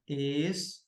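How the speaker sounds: es, co, la with long gaps in "escola"; syllable by syllable. Shown as a demonstration. Teacher dividing a word for exam students, "escola" split syllable by syllable. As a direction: break "escola" into three separated syllables. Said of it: "faço a divisão silábica".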